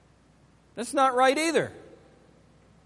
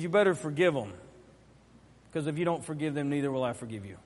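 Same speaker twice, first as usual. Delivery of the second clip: low, soft and solemn; grave quoted warning; 8 semitones lower, 7 dB quieter, faster than usual. Retold or imitated. Preacher quotes God's warning to the unforgiving, low and grave. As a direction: drop to a low hush for the warning.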